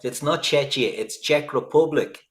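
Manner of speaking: hammed-up indignant correction; mock correcting. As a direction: insist loudly as if correcting a foreigner. Acting out correcting foreigners on their name.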